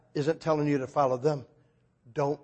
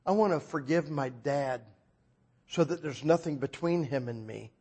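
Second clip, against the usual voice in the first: softer, subdued prayer; modelled prayer; 3 semitones lower, 5 dB quieter than usual. Retold or imitated. Preacher praying as the woman forgiving her dad, gentle modelled prayer. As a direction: pray quietly on her behalf. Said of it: "as if I were her".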